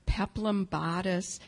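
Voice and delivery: slow, savoring imitation of an approving listener; drawn-out, admiring echo; approving murmur. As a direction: linger on each item approvingly. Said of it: "sort of murmured approvingly".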